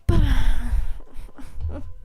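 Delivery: mock anguished cry. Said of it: "I'm in immense physical emotional pain".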